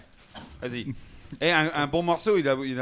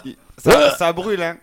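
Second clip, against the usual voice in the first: mouth burning from chili; 4 semitones higher, 6 dB louder than usual. Real, not acted. Just ate very hot chili.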